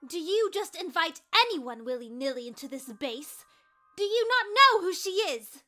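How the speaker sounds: high, loud indignant questioning; accusatory outrage. Acted. Icicle accuses the assembled dragons, rising to outraged shouting. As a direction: accuse them all, building to a shout. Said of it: "Icicle threw accusatory glares".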